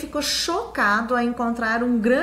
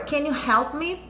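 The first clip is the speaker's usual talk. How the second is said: pergunta lenta de professora; 3 semitones higher, slower than usual. Shown as a demonstration. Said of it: "Lembra do can you?".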